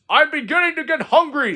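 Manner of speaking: high, loud gloating ghost voice; the dark frog taunting little Frog, loud and gloating; menacing dark frog. Acted. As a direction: gloat over your victim.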